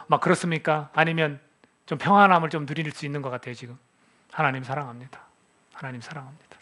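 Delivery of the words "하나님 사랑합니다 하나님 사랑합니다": repeated, softer, fading to a hush; a whispered-down prayer of love; softening confession. Shown as a demonstration. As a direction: let each repetition fall quieter. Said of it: "열 번이고 백 번이고 해보세요".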